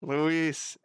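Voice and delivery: Louise with a voiced z ending; name said as LOUISE. Shown as a demonstration. Streamer trying out a name on stream, "Louise" said loo-EEZ. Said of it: "Am I saying it?".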